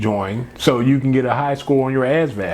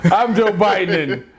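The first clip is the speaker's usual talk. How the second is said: Biden impersonation; 3 semitones higher than usual. Acted. Host mocking a politician who forgets where he is, mild impression. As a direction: trail off into mild mock confusion. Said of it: "doing the Biden impersonation".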